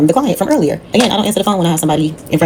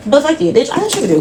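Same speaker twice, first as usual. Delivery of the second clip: mock outburst; 9 semitones higher than usual. Real, not acted. Outburst aside at the rude client.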